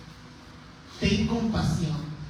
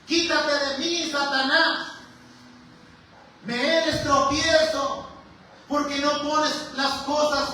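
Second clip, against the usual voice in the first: sudden rebuke; 4 semitones higher than usual. Retold or imitated. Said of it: "Y ahora le está diciendo".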